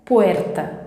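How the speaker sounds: "puerta" with the R correctly rolled on the tongue tip; practice-word "puerta" with a Spanish R; trilled R. Shown as a demonstration. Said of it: "falar o R corretamente". ("puerta" com o R vibrado)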